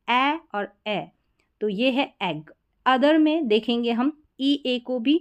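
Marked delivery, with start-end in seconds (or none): 0.1-1.1 ए और ए slowly, apple and egg vowels; two short ए sounds set apart, slowly; contrasted vowels. Shown as a demonstration. Teacher repeating the small difference, ए और ए drawn out. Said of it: "थोड़ा सा इतना आप difference देख सकते हैं".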